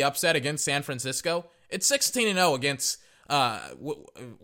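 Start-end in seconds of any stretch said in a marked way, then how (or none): 3.3-4.4 stumbling over words; tripping on the first sound; stuttering. Real, not acted. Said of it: "I don't know why I'm stuttering right now".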